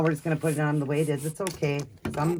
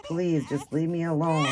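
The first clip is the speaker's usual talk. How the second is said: slow, higher-pitched mock plea; pleading baby; 4 semitones higher than usual. Speaking for the crying baby, lightly pleading. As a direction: lightly voice a baby begging for peace. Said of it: "He's like".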